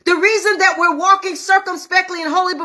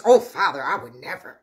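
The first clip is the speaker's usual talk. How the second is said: low, imploring mock promise; protesting disciple; 13 semitones lower than usual. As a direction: imitate a disciple's solemn vow. Peter's promise to Jesus re-enacted.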